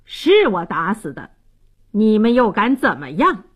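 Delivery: put-on careless, defiant drunk bully; unbothered taunt; nonchalant. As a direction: own up as if it were nothing. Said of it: "满不在乎地说".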